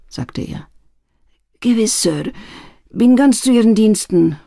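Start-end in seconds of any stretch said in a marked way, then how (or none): 1.6-4.4 panting. Acted. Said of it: "keuchte der alte Mann".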